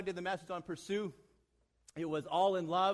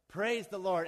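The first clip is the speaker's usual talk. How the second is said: called-out command; 4 dB louder, slower than usual. Acted. Rider gives the horse go command.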